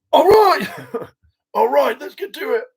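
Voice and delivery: high voice breaking into laughter; laughing wrap-up. Pretend. Castmate ending the beard chat in high, laughing voice. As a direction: laugh it off and get on with it.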